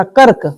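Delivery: "कर्क" with r barely touched before k; one syllable "कर्क"; light half r. Shown as a demonstration. Teacher explains the half letter, "कर्क" with light r. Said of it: "इसका उच्चारण हल्का करेगा".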